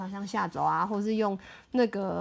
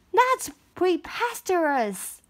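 slow, higher indignant scoff; 8 semitones higher, slower than usual. Acted. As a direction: dismiss it with disdain. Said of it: "hissed the mayor".

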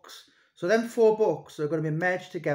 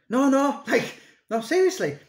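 imitating a bloke insisting, much higher and louder with a laugh; laughing insistence; 10 semitones higher, 5 dB louder than usual. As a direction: retell his laughing "no, no, seriously" up high and loud. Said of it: "he went".

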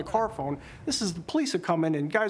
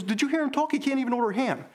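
higher, scornful imitation of dad; mocking retold; 6 semitones higher than usual. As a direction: sneer at the rival like dad did. Dad mocking Lendl's speech.

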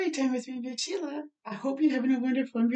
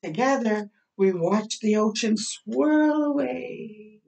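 storybook reading; 2 semitones lower, slower than usual. Acted. Reads picture book aloud.

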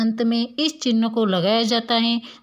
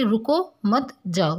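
रुको, brief break, then मत जाओ; pause after रुको. Shown as a demonstration. Teacher showing where the comma goes, pause after रुको. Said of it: "दोनों के बीच में हमने क्या लगा दिया".

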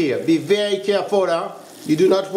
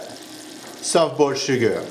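term spelled out slowly; 4 semitones lower, much slower than usual. Shown as a demonstration. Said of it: "I'm at what we call".

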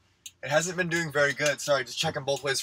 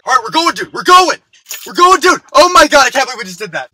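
high, loud, excited yelling; thrilled yelling; 8 semitones higher, 14 dB louder than usual. Acted. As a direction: gush with adrenaline after the stunt. Fleeing after snapping the picture.

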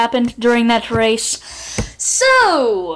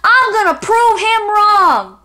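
higher, lightly voiced determined tortoise; a hint of a plucky tortoise, pitched up; 6 semitones higher than usual. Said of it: "he's like".

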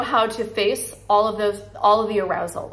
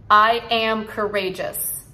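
slow affirmation; slower than usual. Shown as a demonstration. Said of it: "Say it with me".

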